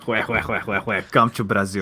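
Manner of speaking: mock Brazilian laugh and catchphrase; hammed-up Brazilian meme voice; Brazilian accent. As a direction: put on a jokey Brazilian accent. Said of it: "I do Brazilian".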